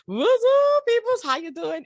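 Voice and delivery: big, high, loud hello to the listeners; hyped radio greeting. Real, not acted. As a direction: throw the greeting out like a pumped-up DJ. Radio host hyped opening greeting.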